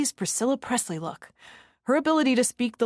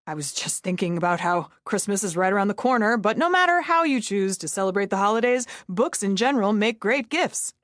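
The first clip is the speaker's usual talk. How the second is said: salesy plug. Pretend. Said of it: "Like you're selling things to an audience".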